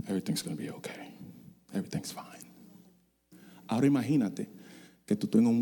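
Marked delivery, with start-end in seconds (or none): 0.1-2.5 lower, softer whispered reassurance, a bit fast; fake reassurance. Pilot soothing the public while chaos inside, hushed. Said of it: "para el público".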